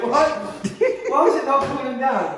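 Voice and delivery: pained, laughing through the burn; mouth burning from spicy food. Real, not acted. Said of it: "My lips are tingling so bad".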